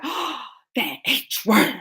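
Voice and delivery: slow, lightly voiced prim lady; prim mom voice. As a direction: mildly scold the bad word. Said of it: "first she was like".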